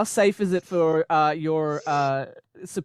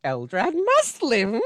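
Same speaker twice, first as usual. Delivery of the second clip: slow, high, dreamy hypnotized chant; hypnotized Sarah Jane; 4 semitones higher, slower than usual. Retold or imitated. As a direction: drone it slowly, as if in a trance. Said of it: "when she's like".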